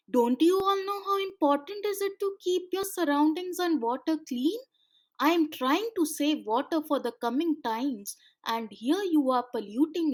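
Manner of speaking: stern scolding. Acted. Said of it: "said the seaman in anger".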